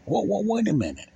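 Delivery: stronger surprise. Retold or imitated. Telling his audience how his mind stops him, now clearly surprised. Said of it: "And I use it and I say".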